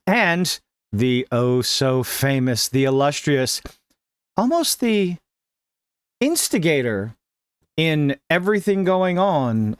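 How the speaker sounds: slow mock-grand announcement dripping with sarcasm; mock fanfare for the oh-so-famous; sarcastic build-up. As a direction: introduce him like a fake celebrity, slowly.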